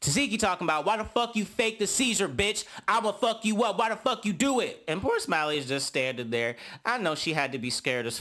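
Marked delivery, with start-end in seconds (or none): 0.9-4.8 higher, aggressive mock rant; imitating an angry yell. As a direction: act out a fight-picking confrontation. Tasiki yelling at Smiley.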